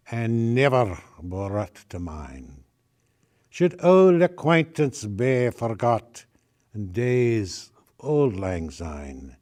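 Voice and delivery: slow, halting Scottish Lowlands dialect reading; halting Lowlands Scots. Shown as a demonstration. Closing the reading with Auld Lang Syne, in halting Scots dialect. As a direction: pick through the poem in a tentative Scots dialect. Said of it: "read it in a kind of halting Lowlands dialect".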